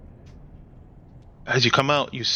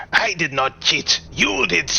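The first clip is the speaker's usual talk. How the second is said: devil arguing back; 3 semitones higher than usual. Acted. GM voices devil quarrel.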